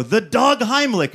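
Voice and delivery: high, loud, drawn-out defensive cry; slow, high-pitched comic holler; frantic mock shout. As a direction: yell it back mid-panic, hammed-up. Shouts answer back at panicking wife.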